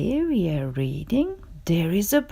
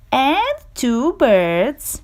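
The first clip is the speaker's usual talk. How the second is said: mild complaint. Acted. Gerald complains, listing everything.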